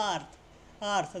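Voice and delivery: আর্থ with one open vowel before the r; open vowel sound. Shown as a demonstration. Teacher showing ea before r and consonant, আর্থ with one vowel. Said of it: "দেখো এ উচ্চারণ হচ্ছে".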